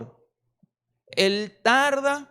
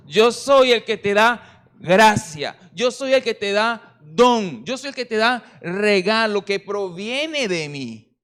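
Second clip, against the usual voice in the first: voicing the Lord; 4 dB louder than usual.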